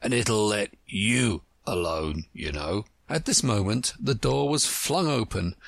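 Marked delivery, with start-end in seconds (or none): 0.0-2.8 panted. Acted. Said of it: "he panted out".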